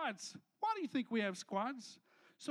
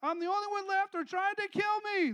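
whiny complaint; 7 semitones higher, 6 dB louder than usual. Acted. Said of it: "He replied again".

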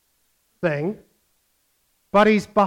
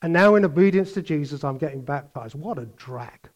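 quick then trailing off softer, utterly bored; bored mock testimony; 5 semitones lower, 3 dB quieter than usual. Preacher mocks a dull testimony, fading bored. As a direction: drone it out like a chore. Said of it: "Just simply blandly obeying".

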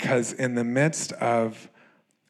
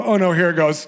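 mock dread; 6 semitones higher, 7 dB louder, faster than usual. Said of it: "and I'd go".

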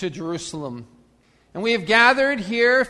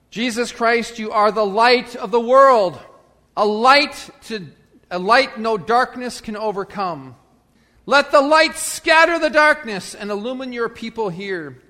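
raised, declaimed hymn words; liturgical recitation; 2 semitones higher, 6 dB louder than usual. Acted. Pastor reminds congregation of words they have sung, proclaimed recitation. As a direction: proclaim each line out to the whole congregation.

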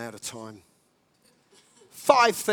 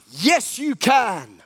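slow, louder, firm reassurance; slow affirmation; 4 dB louder, much slower than usual. Acted. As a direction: confirm it slowly like an encouraging coach. Therapist answers inner voice.

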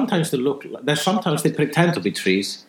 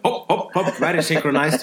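mock marching chant; 3 semitones higher than usual. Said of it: "they're all like five men in a row".

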